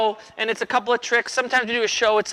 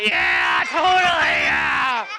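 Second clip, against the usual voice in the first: put-on sarcastic kid; 3 semitones higher, much slower than usual. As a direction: roll your eyes as a bored kid.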